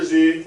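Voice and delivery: Z as a buzzed zzz; letter sound Z. Shown as a demonstration. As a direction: hold Z as a bare consonant. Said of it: "say the sound Z".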